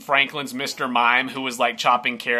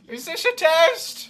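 suspicious. Acted. Franklin reacts suspiciously.

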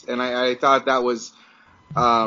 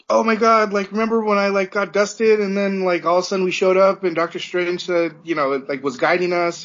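excited Peter; 5 semitones higher than usual. Retold or imitated. Fan retelling Peter's reunion to podcast friends, excited high gush. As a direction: gush it like an overjoyed teen hero. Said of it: "Peter goes up to Tony and he's like".

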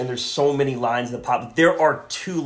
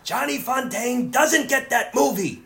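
laughing; 9 semitones higher than usual. Real, not acted. Laughing about Johnny Fontane.

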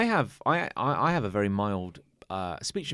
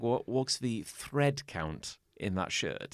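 slow and careful; 5 dB quieter, much slower than usual. Shown as a demonstration. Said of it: "But if it was saying".

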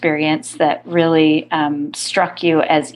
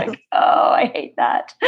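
put-on breathy Valley Girl whisper; 4 semitones lower than usual. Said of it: "Sarah, do your Valley Girl".

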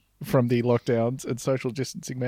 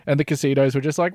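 usual speaking voice

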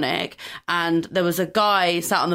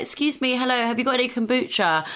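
higher, politely exaggerated English accent; amped-up English accent; 6 semitones higher than usual. Londoner asking in an American Whole Foods, amped-up English accent. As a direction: lay the English accent on thick, pitched up. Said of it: "I amp it up so much".

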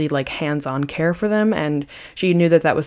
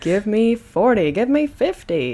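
high, drawn-out announcer call; fighting game announcer; 5 semitones higher than usual. Acted. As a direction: hype it up like an arena announcer. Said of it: "I don't know where that announcer voice came from".

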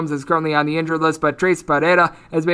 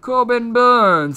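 put-on old English accent; 6 semitones higher, much slower than usual. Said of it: "his name should be said in an old English accent".

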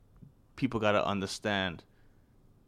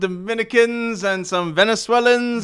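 loud, high hype call; excited shout; 11 semitones higher, 11 dB louder than usual. Acted. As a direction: shout it like a rally cry. Joking loud rally call.

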